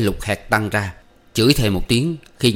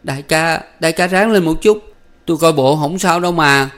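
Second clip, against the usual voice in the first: high, louder, tearful pleading; sobbing plea; 7 semitones higher, 5 dB louder than usual. A narrator's reading. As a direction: beg the wounded boss to hang on. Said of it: "thổn thức van nài".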